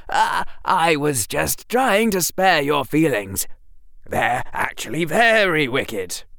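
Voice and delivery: high, stammering panicky Harry; high nervous backpedal; backpedalling boy. A narrator's reading. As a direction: cover the blunder fast.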